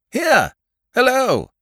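very high, loud shout. Acted. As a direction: yell out your position. Calling to rescuers.

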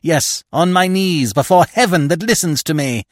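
vengeful widow, emphatic and solemn. Acted. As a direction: declare it like a solemn oath.

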